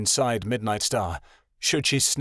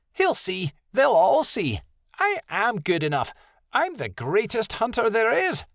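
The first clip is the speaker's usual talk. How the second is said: higher voiced arrogant young wolf; higher, boastful young she-wolf; proud young she-wolf; 12 semitones higher than usual. A narrator's reading. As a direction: play the cocky young wolf.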